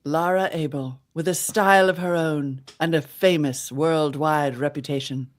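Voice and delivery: put-on old-time radio ad voice in mid-Atlantic accent. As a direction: read it like a thirties mid-Atlantic announcer. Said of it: "It's either mid-Atlantic ac-, accent or slightly British".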